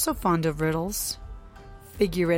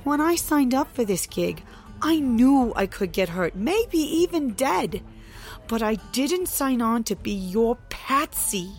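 loud, high, bitter protest; frustrated outburst; 5 semitones higher, 5 dB louder than usual. Acted. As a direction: make him hear it. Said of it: "in her frustration".

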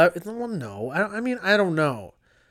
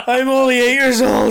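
put-on high, louder childlike voice; high kid voice; 6 semitones higher, 6 dB louder than usual. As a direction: play a whiny eight-year-old. Playing child self.

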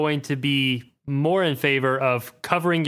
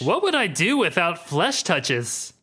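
mock lament; 4 semitones higher, slower than usual. Joking in Rogue's place.

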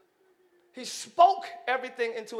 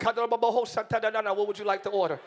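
mock cashier voice; 3 semitones lower, slower than usual. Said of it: "Arby's, like".

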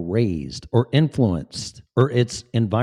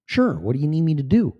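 high eager helper voice; bright eager robot helper; chipper AI voice; 5 semitones higher, faster than usual. Retold or imitated. AI answers cheerfully.

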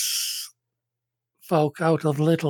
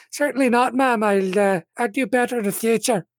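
higher, fast, forced politeness through gritted teeth; an apprentice in pain answers her captor through gritted teeth; 7 semitones higher than usual. Acted. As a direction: swallow the pain and stay polite. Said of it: "grits her teeth the last two syllables".

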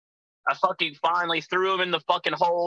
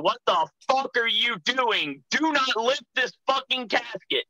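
higher-pitched mock yell from inside a casket; indignant retold holler, pitched up; 7 semitones higher than usual. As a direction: yell it in protest, without full volume. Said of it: "I'm yelling inside this casket".

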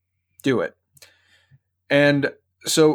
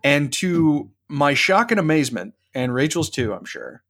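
normal talking voice

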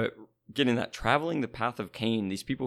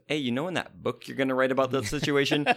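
mock indignant; 4 semitones higher, 4 dB louder than usual. Acts Cain arguing back at God.

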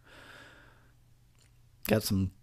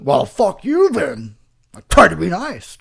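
slow, louder offended snap; Darnell snapping; 6 semitones higher, 8 dB louder, slower than usual. Pretend. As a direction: snap it like someone insulted. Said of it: "acting like Darnell".

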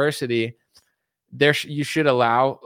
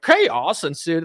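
imitated TV news drama, drawn out slowly; mock dramatic news read; scary newscaster inflection; 3 semitones higher, much slower than usual. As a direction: stretch it like an ominous news anchor. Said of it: "doing this inflection with their voice to, like, scare you".

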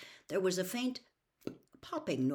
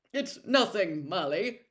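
mumbled; 2 semitones higher, 6 dB louder than usual. A narrator's reading. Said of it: "mumbled Mister Weasley".

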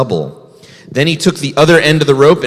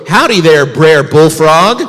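grumpy bear; 2 semitones higher, 6 dB louder than usual. Acted. Grumpy bear greets frog.

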